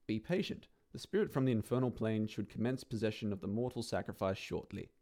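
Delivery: brisk, dry instruction-booklet read; mock manual read. Narrator reading the revised summoning instructions, dry and brisk. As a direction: read it like a how-to leaflet.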